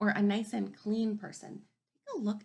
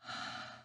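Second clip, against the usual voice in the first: tired sigh; 9 dB quieter than usual. Shown as a demonstration. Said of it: "make your body look like it's tired".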